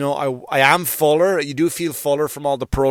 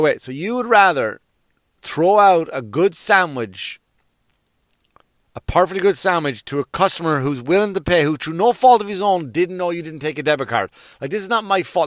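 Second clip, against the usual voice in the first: higher-pitched incredulous protest; retold indignant appeal, pitched up; acted indignant disbelief; 4 semitones higher than usual. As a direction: argue your case like a wronged customer. Acts out arguing with the clerk.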